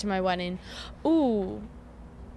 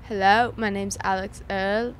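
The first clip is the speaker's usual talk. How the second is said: careful, nearly-there British accent; slower than usual. Shown as a demonstration. Host practises after coaching, tentative British accent. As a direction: try a British accent slowly. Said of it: "it's so close".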